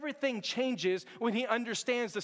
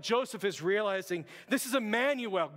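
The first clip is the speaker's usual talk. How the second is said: ordinary delivery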